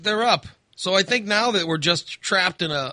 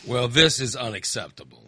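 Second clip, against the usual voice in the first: mock stern; 5 semitones lower than usual. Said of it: "Here we go with you trying to rule the roost".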